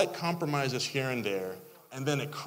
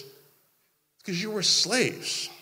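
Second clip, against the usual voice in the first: slow deadpan retort; 6 semitones higher, much slower than usual. Real, not acted. Retort to the complainers.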